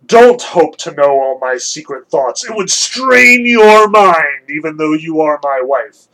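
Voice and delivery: a hint of a lofty king of gods; stern Zeus. Zeus rebuking his prying wife, stern and weighty. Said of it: "father of gods and men answered".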